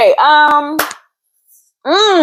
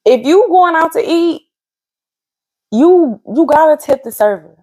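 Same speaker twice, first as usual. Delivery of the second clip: higher-pitched PSA to all listeners; public announcement; 7 semitones higher than usual. Pretend. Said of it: "public announcement".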